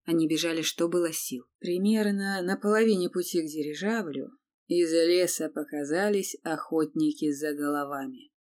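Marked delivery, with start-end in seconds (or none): none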